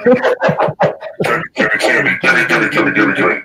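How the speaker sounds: low breathy evil chuckle; demonic laugh. Real, not acted. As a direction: cackle like a demon. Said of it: "That's a demonic voice".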